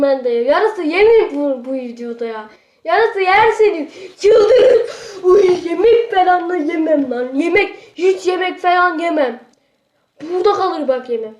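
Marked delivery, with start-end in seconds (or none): 2.8-9.4 laughing protest. Real, not acted.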